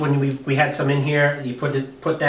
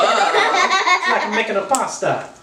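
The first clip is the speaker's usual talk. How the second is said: put-on Italian accent; 4 semitones higher, slower than usual. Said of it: "my horrible Italian accent".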